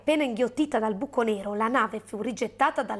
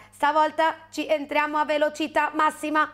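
slightly heightened pilot voice; alien pilot; 4 semitones higher than usual. Acted. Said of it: "disse il pilota".

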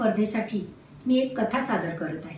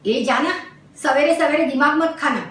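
annoyed brush-off; 3 semitones higher, 4 dB louder than usual. Acted. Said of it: "त्रासूनच उत्तर दिलं".

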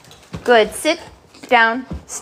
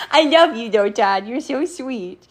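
laugh-tinged fondness for a dog; affectionate cooing. Real, not acted. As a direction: coo lovingly at the dog.

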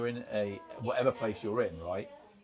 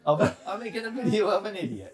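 higher hammed-up Italian voice; mock Italian accent; 8 semitones higher, 5 dB louder than usual. Mocking Carlos in a put-on Italian accent. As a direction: keep the silly Italian impression going. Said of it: "taking a piss out of an Italian".

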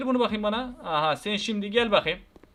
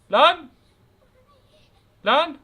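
sudden loud, high yelp of shock; one sharp startled cry; shocked shout; 6 semitones higher, 7 dB louder than usual. Real, not acted. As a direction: blurt it out in alarm. Shocked by the baby.

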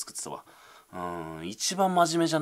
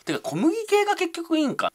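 high, loud mimicked comeback; mock incredulous retort; 7 dB louder than usual. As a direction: squeal it as a viewer's objection. Acts out a viewer's retort.

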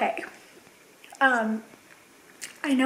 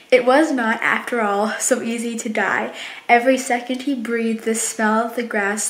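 reading aloud. Real, not acted. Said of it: "Let me try and read it to you guys".

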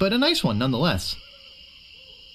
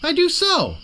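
put-on much higher, louder childish retort; petulant insistence; 12 semitones higher, 3 dB louder than usual. Guybrush insisting to the swordmaster, childish and high. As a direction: whine it back like a kid. Childish back-and-forth quarrel.

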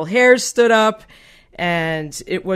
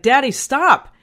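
mild imitated child's yell, higher pitched; urgent little call, pitched up; retold yell; 6 semitones higher, 4 dB louder, slower than usual. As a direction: call out to Daddy, not full volume. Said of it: "I yelled to my dad".

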